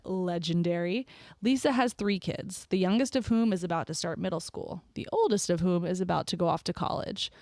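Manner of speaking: measured, scripted host read; podcast intro narration. Real, not acted. Host introducing her guest to listeners, podcast intro narration.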